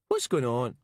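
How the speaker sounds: puzzled Glaswegian question; bemused Glaswegian caller; broad Glaswegian accent. A narrator's reading. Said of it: "Colin Miller's broad Glaswegian accent".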